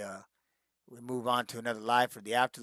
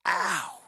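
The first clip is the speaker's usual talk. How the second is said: mild mock ow; 5 semitones higher than usual. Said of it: "you're just like".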